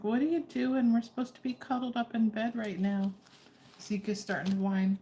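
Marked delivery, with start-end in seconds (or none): 0.0-3.1 higher-pitched voice for a complaining dog; playfully voicing the dog. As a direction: speak up for a pet wanting bed, higher. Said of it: "He's like".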